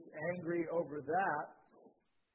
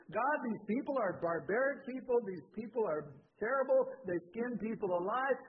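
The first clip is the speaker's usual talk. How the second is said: raised, pressing protest; indignant complaint; 5 semitones higher, 4 dB louder than usual. Retold or imitated. Jonah protesting to God about the Assyrians, indignant. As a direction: make your case against them to God.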